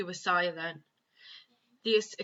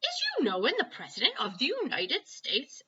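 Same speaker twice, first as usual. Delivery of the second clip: respectful tone; 7 semitones higher than usual. A narrator's reading. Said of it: "in a rather respectful tone".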